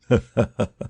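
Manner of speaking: quiet amused chuckle to oneself; soft chuckle. Acted. Holmes amused by Watson's reading, soft chuckle. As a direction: laugh softly under the breath. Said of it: "Holmes laughed softly to himself".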